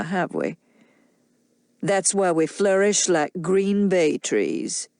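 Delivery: put-on a drunk man confessing jealousy; bitter drunk man.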